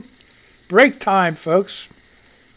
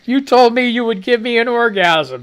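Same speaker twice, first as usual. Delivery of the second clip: reading a quote; 5 semitones higher, 3 dB louder than usual. Retold or imitated. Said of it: "reading the meme aloud".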